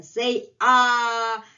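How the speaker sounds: loud bright "Say ah" to everyone; mock cheerful call. Teacher voicing the cat inviting everyone, loud and cheerful. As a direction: invite the class to sing along, loudly. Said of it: "And he's saying".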